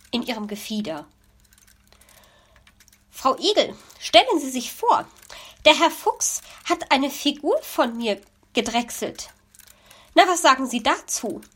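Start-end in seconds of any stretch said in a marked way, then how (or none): 3.1-11.4 lightly raised, eager magpie voice; a chatty bird bursting with news; gossipy magpie, a bit louder; excited magpie. Acted.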